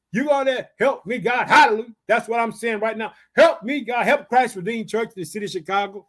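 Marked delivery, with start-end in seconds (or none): 0.1-4.0 loud, raised plea to God; crying out. Acted. Preacher showing the church how to call on God, crying out. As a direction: cry out boldly for help. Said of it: "Don't be afraid to cry out to God".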